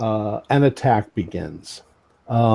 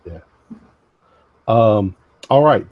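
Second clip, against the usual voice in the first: ordinary delivery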